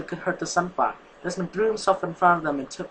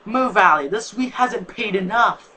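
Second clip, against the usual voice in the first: louder, higher threatening snap; menacing; 5 semitones higher, 5 dB louder, slower than usual. Acted. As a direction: order him aside with menace. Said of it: "said in the same meaning voice".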